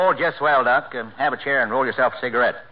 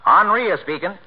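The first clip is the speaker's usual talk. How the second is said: Henri is speaking put on in a mock French accent, louder; fake French accent; 6 semitones higher, 5 dB louder than usual. Tailor answering a customer in his fake French accent. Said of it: "I could afford to throw away the accent".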